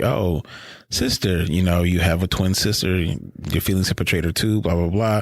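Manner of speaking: lightly imitated villain, pitched low; Vader. Retelling Vader tempting Luke, lightly voiced low taunt. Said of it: "even when Vader, you know, kinda was trying to tempt Luke".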